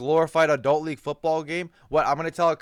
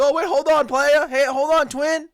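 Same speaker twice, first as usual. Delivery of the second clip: much higher, louder mocking cave-in; mock backing down; 9 semitones higher, 5 dB louder than usual. Vlogger mocking the player suddenly backing down, high and loud. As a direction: squeak out a nervous climb-down. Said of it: "And he goes".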